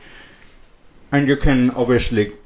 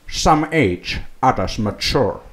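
Sean Connery voice; 2 semitones lower, 3 dB quieter, slower than usual. Acted. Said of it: "in a really shitty Sean Connery voice".

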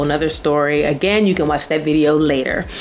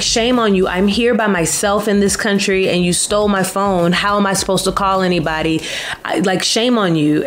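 scolding; 3 semitones higher than usual. Retold or imitated. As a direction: shame them like an angry auntie. Scolding the thieves.

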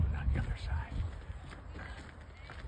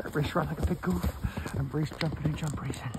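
lightly voiced horse, high and quick; playful horse's voice; 7 semitones higher, faster than usual. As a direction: speak high for a boastful horse. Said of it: "He says".

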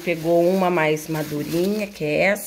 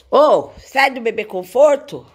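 calling out; 4 semitones higher, 7 dB louder than usual. Real, not acted. Mother calls to the baby.

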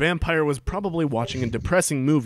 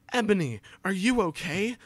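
mock concerned; 6 semitones higher than usual. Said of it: "asks in a concerted voice".

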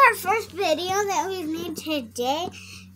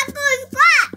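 high, loud cub call; acting a character; 9 semitones higher, 7 dB louder than usual. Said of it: "If I act Scar right".

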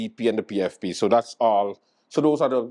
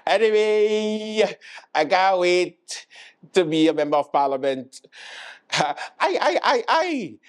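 stretched, high mock Spanish accent; comic Spanish accent rising to high yelps; 10 semitones higher, slower than usual. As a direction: drag it out slowly in a hammed-up Spanish accent. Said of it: "That was my Spanish, um, accent".

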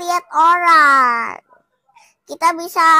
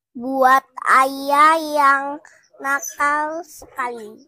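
slow teasing; 4 semitones lower, much slower than usual. Real, not acted. Child teasing dad in game.

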